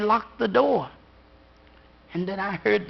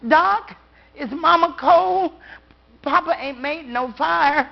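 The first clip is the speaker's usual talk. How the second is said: put-on innocent child; 6 semitones higher than usual. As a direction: ask it innocently, not understanding. Child asks doctor about mama.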